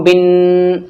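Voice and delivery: "बिन" with a long hummed n; ghunna demonstration. Shown as a demonstration. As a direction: hold the final n of "बिन". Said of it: "तशदीद है तो गुन्ना होगा". ("बिन" का नून गुन्ने से खींचकर)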